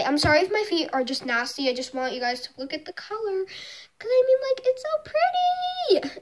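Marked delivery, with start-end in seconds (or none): 4.1-6.2 whispered in awe, higher; awed whisper. Real, not acted. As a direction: breathe it out admiringly. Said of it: "Like, I love this color".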